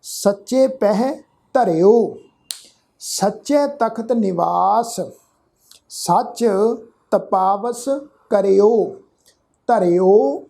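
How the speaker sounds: slow Gurbani reading, each word drawn out; measured scripture recitation. Shown as a demonstration. Teacher showing the congregation how to read the verse, slow measured recitation. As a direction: recite deliberately with pauses between words. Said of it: "ਇਸ ਢੰਗ ਨਾਲ ਪਾਠ ਉਚਾਰਨ ਕਰਾਂਗੇ".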